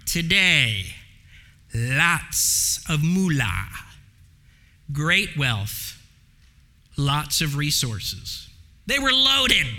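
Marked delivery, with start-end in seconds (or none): 1.7-8.5 wry aside. Acted. Wry list of wealth.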